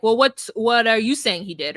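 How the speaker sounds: a hint of cold, dismissive officer; lightly imitating an unfeeling cop; mildly callous police question. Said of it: "the way they said it was so callous".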